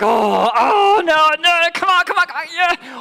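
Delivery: put-on a parent yelling come on at a struggling kid; anxious cheering parent. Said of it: "you're like".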